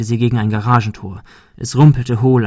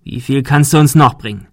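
demanding threat; 3 semitones higher, 5 dB louder than usual. Acted. Thug extorts more.

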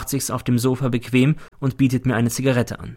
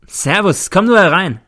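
higher, loud familiar greeting; breezy welcome; 7 semitones higher, 5 dB louder than usual. A narrator's reading. Blonde greets a visitor at her door, breezy welcome. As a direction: call out a casual hello and invitation.

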